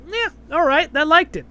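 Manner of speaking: high, pleased "yeah, all right"; impressed approval. Retold or imitated. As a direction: sound won over, a little surprised. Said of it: "So I was like".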